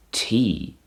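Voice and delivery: tea said as a long "tee"; Welsh pronunciation. Shown as a demonstration. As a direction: hold the vowel in tea, "teee". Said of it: "it's pronounced".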